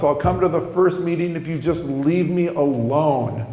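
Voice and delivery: restrained, emphatic repeat of a promise; measured but exasperated concession; grudging promise. Retold or imitated. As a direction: confirm it firmly, without shouting. Repeats the promise, more controlled.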